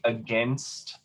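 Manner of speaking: against said slowly, weight on the second syllable; second-syllable stress. Shown as a demonstration. Teacher gives English stress example, against slowly stressed on second syllable. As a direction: draw out the GAINST of against. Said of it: "we have it sort of like in English".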